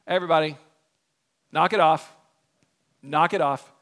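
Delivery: low, terse order to a crowd; acted official shutting things down; dismissive leader. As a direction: put a stop to it, pitched low. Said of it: "his response is".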